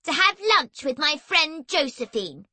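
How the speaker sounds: unfriendly big sister. A narrator's reading. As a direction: answer a brother coldly. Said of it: "gave Erg an unfriendly look".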